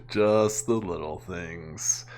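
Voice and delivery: repeating her line slowly to tease the clip; mock wistful echo. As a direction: drawl it back mockingly.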